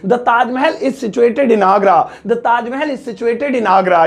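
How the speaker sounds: slow, careful model English; slow clear teacher dictation; teaching model sentence. Shown as a demonstration. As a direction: say the right answer slowly. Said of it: "तो इसकी English होगी".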